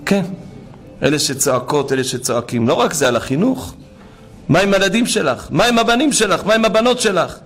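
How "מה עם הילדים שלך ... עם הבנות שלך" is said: high, insistent questions; urgent appeal. Real, not acted. Preacher urging a mother to cry out for children, urgent appeal. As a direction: press each question urgently, raised pitch.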